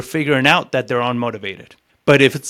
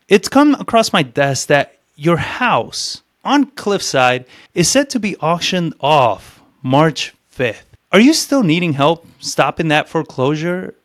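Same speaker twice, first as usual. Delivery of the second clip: slowed down, pausing before the crucial words; slow down and let each key word land; slow, deliberate cadence; slower than usual. Shown as a demonstration. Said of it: "I'm slowing down. The cadence is different".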